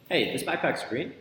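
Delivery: statement turned question, rising on "green"; questioning intonation. Shown as a demonstration. Coach giving examples of tonality, questioning intonation. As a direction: lift "green" as if unsure it's true. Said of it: "Because of that tonality".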